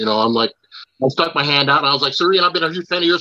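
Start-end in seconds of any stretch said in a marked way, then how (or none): 2.1-3.2 high, very fast, excited, rushed delivery. Retelling fanboying while greeting a hero, talking a mile a minute. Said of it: "I'm just talking a mile a minute".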